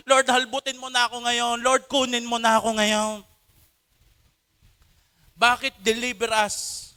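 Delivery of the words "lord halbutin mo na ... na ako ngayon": urgent cry. Shown as a demonstration. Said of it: "ikay sumisigaw".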